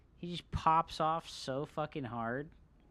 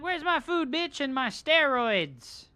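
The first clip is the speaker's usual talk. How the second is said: cat's voice; 7 semitones higher, 8 dB louder than usual. Retold or imitated. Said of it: "She's like".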